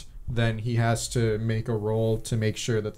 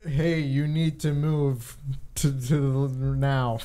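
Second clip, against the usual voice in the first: orc voice whisper; slower than usual. Acted. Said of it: "try my best orc voice".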